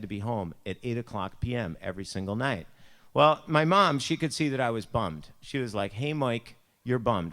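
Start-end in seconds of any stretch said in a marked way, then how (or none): 5.9-7.3 put-on lightly Buffalo-accented mom; a touch of Buffalo in the vowels. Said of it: "That's how we talk".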